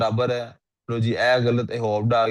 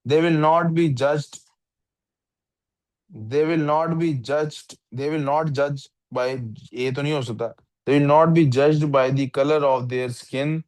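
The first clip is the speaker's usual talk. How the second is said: slow, word-by-word reading aloud; slow test-sentence reading; 2 semitones higher, much slower than usual. Shown as a demonstration. Teacher reading a test sentence to the student, slow and deliberate. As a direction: read each word out slowly, testing it.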